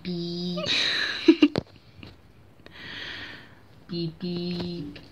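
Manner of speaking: low flat beep imitation; mock phone notification beeps; phone beep impression. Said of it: "You don't sound like a phone".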